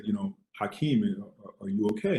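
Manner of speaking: lightly voiced subdued father; a touch of sullen concern; sullen dad. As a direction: retell a dad's downcast question, understated. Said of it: "my dad was kind of in a sullen tone".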